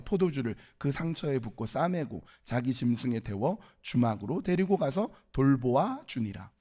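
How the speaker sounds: measured reading of a Bible passage; scripture reading. Acted. Preacher reading the Samaritan parable to congregation, formal reading. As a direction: read scripture aloud to a congregation.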